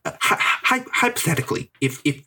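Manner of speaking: hesitant, stammering mock pundit; a hint of a conservative pundit; Ben Shapiro impression. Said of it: "I will be doing that impression".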